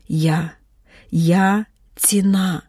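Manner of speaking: slow, strained words squeezed out through a contraction; forced out in pain. A narrator's reading. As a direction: push the words out as the pain hits. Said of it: "видушила разом із переймами". (видушено, крізь біль)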